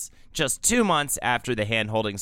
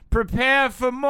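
dramatic announcement; 10 semitones higher than usual. Acted. Teasing ominous announcement.

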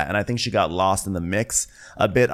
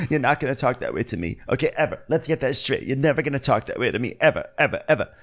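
lightly put-on, higher scolding voice; Vicky impression; 5 semitones higher, faster than usual. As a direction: scold in a hint of a caricature. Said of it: "I heard the Margaret there".

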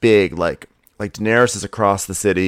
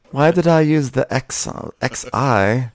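high-pitched mock bewilderment, rising to accusation; put-on character voice, increasingly suspicious; Sansa; 8 semitones higher than usual. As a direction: play puzzled, climbing higher as it dawns. Acted Sansa accusing Bran.

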